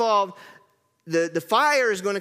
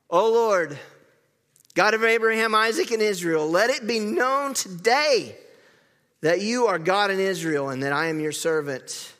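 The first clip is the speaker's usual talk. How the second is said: prayer. Acted. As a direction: call on God with reverent weight. Elijah's prayer read aloud.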